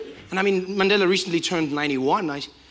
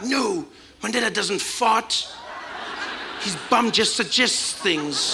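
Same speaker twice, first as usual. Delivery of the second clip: mock-reverent denial; 3 semitones higher, slower than usual. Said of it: "They're like".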